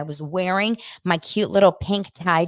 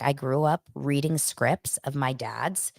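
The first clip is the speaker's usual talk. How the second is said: whispered quote; 4 semitones lower, 6 dB quieter, slower than usual. Retold or imitated. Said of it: "She's like".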